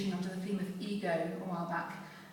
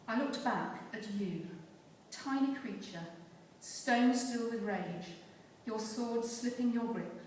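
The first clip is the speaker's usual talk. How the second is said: measured poem recital with deliberate pauses; poetry reading. Acted. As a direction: recite it line by line, weighting the key words. Recites own poem Behind the Line.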